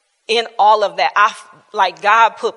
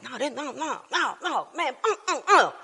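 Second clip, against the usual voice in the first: laughing denial; 4 semitones higher, 5 dB quieter than usual. Retold or imitated. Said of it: "I'm like".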